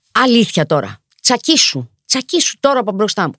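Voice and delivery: mildly heated, emphatic telling-off; mock indignant rebuke. Imagined passer-by telling off the racist shouter, indignant. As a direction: act out an outraged bystander stepping in.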